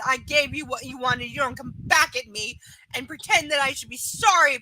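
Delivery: pissed-off, emphatic rant; indignant telling-off; real anger. Real, not acted. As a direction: lay down the law to someone who wronged you. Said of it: "that still pisses me off".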